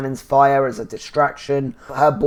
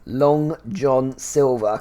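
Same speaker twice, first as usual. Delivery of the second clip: "Long" hit harder than the rest of "Long John Silver"; stress on long; slower than usual. Real, not acted. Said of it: "Emphasis on the word long".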